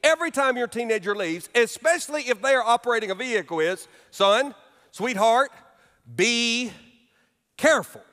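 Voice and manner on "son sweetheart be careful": parent's warning. Retold or imitated. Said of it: "the last thing you say every time".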